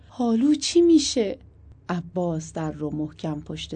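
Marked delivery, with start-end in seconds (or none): 0.1-1.4 put-on higher, louder question in Shirazi accent; Shirazi-accented anxious question. A narrator's reading. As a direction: ask it with a Shirazi lilt. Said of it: "با لهجهٔ شیرازی پرسید".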